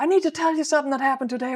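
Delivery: put-on bright, high, rushed, bubbling-over childlike excitement, acted out. Imitating the other speaker telling daily stories: imitating excited childlike voice. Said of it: "so bright and childlike almost in your".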